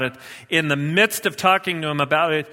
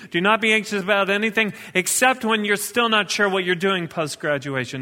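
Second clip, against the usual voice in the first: quick, higher, sarcastic fake footnote read; mock fine print; 5 semitones higher than usual. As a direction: rattle it off like a silly loophole. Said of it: "My Bible doesn't say at the bottom".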